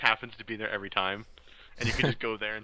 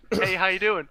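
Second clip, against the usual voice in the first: mock friendly greeting; 8 semitones higher, 6 dB louder than usual.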